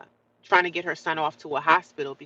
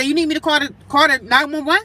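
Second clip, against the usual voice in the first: raised, high-pitched challenge; retold urgent demand; 8 semitones higher, 7 dB louder than usual. Housemate re-enacting her question at the mother's door, loud and high. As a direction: call it out sharply through a door.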